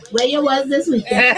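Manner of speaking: put-on parent's Caribbean accent on a phone call. Parent calling to check on a daughter, Caribbean accent. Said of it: "You really need to use the accent".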